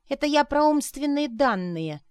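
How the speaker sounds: loud, high snapped retort; sharp shouted put-down; barking retort. A narrator's reading. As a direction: bark it at him. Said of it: "рявкнула Арина".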